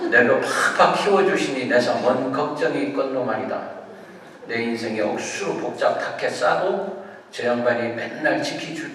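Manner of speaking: psalm recited in Gyeongsang dialect; Gyeongsang dialect reading. Shown as a demonstration. Preacher livens up Psalm 23 for congregation, Gyeongsang dialect. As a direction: read it with a homely Gyeongsang accent. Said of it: "경상도 버전으로 한번 제가 읽어볼게요".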